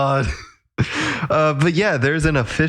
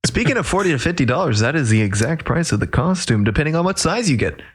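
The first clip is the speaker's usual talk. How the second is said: hard sell ad. Pretend. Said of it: "I need to stop doing this like an ad".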